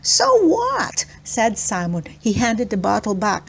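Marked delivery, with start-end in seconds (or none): 0.0-1.0 put-on high, sneering kid voice; dismissive. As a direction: brush it off with scorn. Simon shrugs off accusation.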